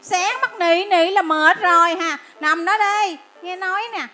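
loud, scornful groan at the name; mock the patient's long name; mocking exasperation. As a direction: nurse scoffing at an awkward name.

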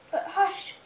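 put-on lively storybook reading to a toddler; mother reading a picture book to her little son; reading to children. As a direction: read it out like bedtime story time.

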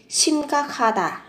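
심각하다 with ㄱ and ㅎ joined into one aspirated "kh"; nối âm. Shown as a demonstration. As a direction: link the middle of 심각하다 into a "kha" sound. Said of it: "phát âm thành âm khờ". (심각하다 nối âm thành âm "khờ")

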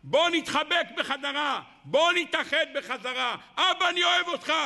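high, yearning cry ending in a shout; calling to father. Acted. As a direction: cry out to your father with longing. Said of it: "ותגיד".

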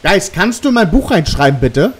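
high, loud call to the ghost; yelling across the room. Real, not acted. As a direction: shout it into the empty room. (laut in den Raum rufen)

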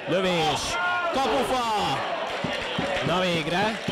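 rising, excited shout at a shot; excited hungarian sports commentary. Real, not acted. Shot hits the post.

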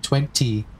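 twenty with the second T sounded clearly; careful "twenty", T fully released; T emphasized. Retold or imitated. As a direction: hit both Ts in the first "twenty". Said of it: "you emphasized the T".

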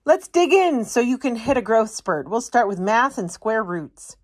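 a tree eager to teach; lightly voiced wise tree; eager teacher tree.

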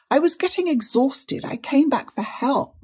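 high, weak, plaintive voice; faint reply. A narrator's reading. Exhausted niece excusing herself to aunt, faint. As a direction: answer feebly, pitched high. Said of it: "was the faint reply".

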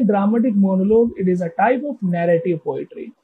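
very slow, word by word, reading a definition; slow dictation. Shown as a demonstration. Teacher reading the textbook definition to students, very slow. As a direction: spell each word out for students to copy. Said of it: "teacher reads definition to class".

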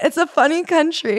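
laughing so hard it turns to crying. Real, not acted. Laughing-crying over the country.

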